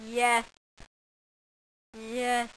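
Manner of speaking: loud shouted yes; triumphant yes. Real, not acted. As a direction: punch the air and yell yes. Finally finds diamond.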